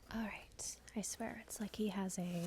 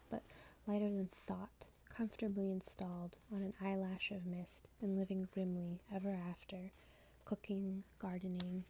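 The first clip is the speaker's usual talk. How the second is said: measured, hushed poetry recital; poem reading. Acted. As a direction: intimate poem reading with even cadence. Reads second poem aloud.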